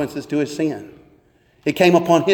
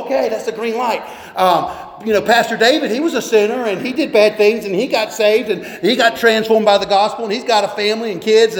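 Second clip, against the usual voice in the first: mock careless kid; 4 semitones higher than usual. Mocking a kid's careless reasoning.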